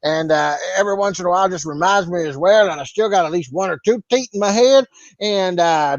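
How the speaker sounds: lightly voiced country bumpkin bragging about his farm; Cletus the farmer. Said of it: "see you, Cletus".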